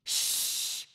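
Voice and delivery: sharp unvoiced shush; librarian shush. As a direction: hush them like a librarian. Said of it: "This is a library".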